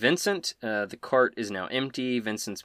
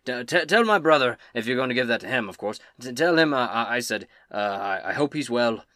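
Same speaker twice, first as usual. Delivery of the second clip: Tybor; 4 dB louder than usual. Acted. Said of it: "he passes it to you and he says".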